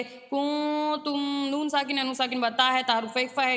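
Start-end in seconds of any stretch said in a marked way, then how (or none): 0.0-1.5 کنتم very slowly, with the noon hidden in a nasal hum; slow ikhfa in کنتم. Shown as a demonstration. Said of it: "یہاں پہ اخفا کریں".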